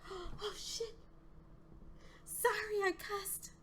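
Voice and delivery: high, frantic squeal; panicked. Real, not acted. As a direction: panic under pressure. Panics as timer runs out.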